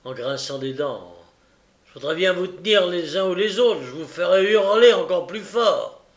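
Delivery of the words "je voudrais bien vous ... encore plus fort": louder, higher, a furious threat. A narrator's reading. Robber threatens his pursuers, furious and loud. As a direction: spit the threat out in rage. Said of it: "avec toute la fureur".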